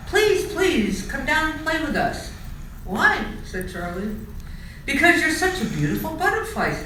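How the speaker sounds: high, fast begging voice; pleading. A narrator's reading. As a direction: beg quickly up high. Mice beg Charlie.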